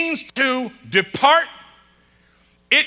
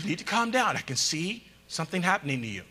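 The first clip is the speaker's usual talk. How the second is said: soothing wife; 7 semitones lower, 10 dB quieter, faster than usual. Retold or imitated. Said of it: "She's like".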